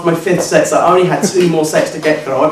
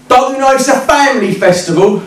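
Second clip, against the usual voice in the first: higher-pitched indignant challenge; indignant heckler; 7 semitones higher than usual. Retold or imitated. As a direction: accost him with an affronted question. Pink-haired heckler confronts him, first time.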